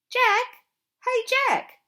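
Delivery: urgent loud call of his name. A narrator's reading. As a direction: yell across the field to warn him. Teammates shouting warning.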